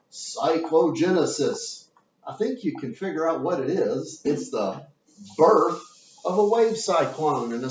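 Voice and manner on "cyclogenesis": slow, relishing "Cyclogenesis"; savoring the word. Shown as a demonstration. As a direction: stretch out "Cyclogenesis", enjoying each syllable. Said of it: "I like that word so much".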